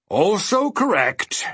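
high, slow, yawned words; drawn-out nonchalant yawn. A narrator's reading. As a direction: say it through a yawn. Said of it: "yawned the mathematician".

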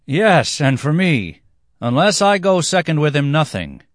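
high, loud dancers crying out; excited cry. A narrator's reading. Dancers clamour to join the offering, excited cry. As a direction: cry it out high, dropping on the last word. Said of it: "The dancers cried".

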